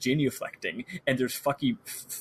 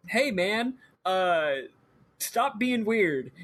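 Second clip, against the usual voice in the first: Mojo; 6 semitones higher, much slower than usual. Retold or imitated. Voicing Mojo the living doll.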